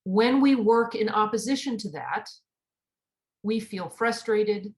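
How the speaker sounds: slow, weighty sermon delivery; slow preaching. Acted. Minister drawing the lesson for the congregation, slow and weighty. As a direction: lean into each phrase like a preacher.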